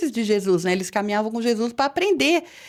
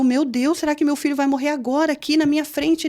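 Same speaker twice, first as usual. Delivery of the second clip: higher-pitched, alarmed questioning; a scared mother's appeal to God; frightened retold prayer; 5 semitones higher than usual. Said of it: "eu tava super assustada". (prece assustada em voz aguda)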